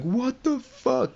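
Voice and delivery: slow, high-pitched stunned voice; mock horrified disbelief. Acts man horrified by the shootings.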